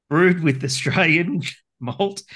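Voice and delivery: giggling through the words; breaking into a laugh mid-read; laughing while reading. Real, not acted. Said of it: "What are you laughing".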